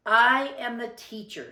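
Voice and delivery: a hint of a bossy teacher; mock teacher. Girl playing teacher to her baby brother, mock bossy. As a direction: announce it like the one in charge. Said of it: "Lily pretended to be Mister Slinger".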